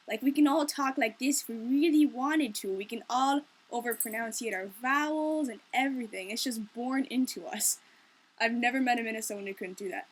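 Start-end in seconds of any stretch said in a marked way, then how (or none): 0.1-6.3 exaggerated Minnesotan accent, overpronounced vowels; fake Minnesota accent. Shown as a demonstration. Showing how every Minnesotan can fake it, exaggerated Minnesota accent. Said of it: "can fake the accent". 6.3-7.8 slow, exaggerated Minnesotan accent; fake Minnesota accent. Shown as a demonstration. Minnesotan saying it is born into them, faked Minnesota accent. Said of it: "can fake the accent".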